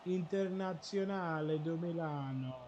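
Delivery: slow, drawn-out faux Italian; pretend Italian. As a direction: put on an Italian accent, taking your time. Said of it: "pretending like I speak Italian".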